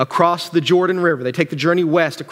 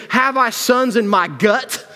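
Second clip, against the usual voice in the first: slow, higher-pitched indignant question; Naomi; 6 semitones higher, slower than usual. Acted. Bitter widow challenging her daughters-in-law, very emotional. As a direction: draw it out, upset and incredulous. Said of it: "She gets so emotional".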